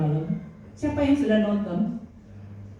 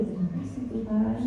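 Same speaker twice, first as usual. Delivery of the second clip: mock worship; 4 semitones higher, 4 dB quieter than usual. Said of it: "sembah-sembah dia dulu".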